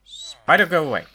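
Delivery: high, loud yelp at a spider; screaming at a spider. Real, not acted. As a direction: shoo the spider away in alarm.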